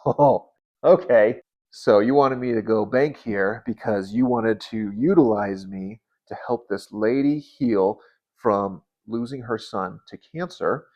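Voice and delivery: tearful realization. Retold or imitated. Telling God he understands why, tearful and slow. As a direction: speak through tears, slowly realizing. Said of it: "So I started crying a lot".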